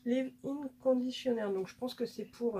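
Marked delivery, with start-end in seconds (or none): 0.0-1.5 English brand name in a French accent; slightly slow English with a French accent. Real, not acted. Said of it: "désolée pour mon accent pourri".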